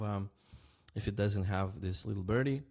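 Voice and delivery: usual speaking voice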